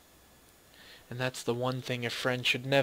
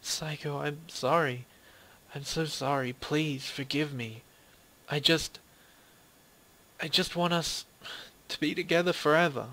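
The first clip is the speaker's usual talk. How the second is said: higher, pleading through tears; a touch of crying in a higher voice; tearful plea; 5 semitones higher than usual. Acted. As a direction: beg your friend to forgive you. Naomi's tearful apology.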